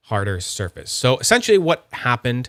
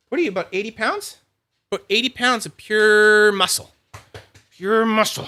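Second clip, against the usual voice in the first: higher, fond voice to the dog; doting pet talk; 7 semitones higher than usual. Real, not acted. Owner admiring his big dog, higher fond pet voice. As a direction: praise the dog like a proud owner.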